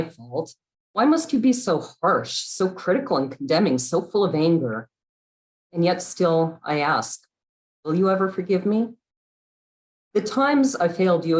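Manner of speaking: pleading verse, rising on the questions; poetry reading. Acted. Poet asking someone's forgiveness in verse, expressive poetry reading. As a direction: lift the questions, let the admissions settle. Reads own poem aloud.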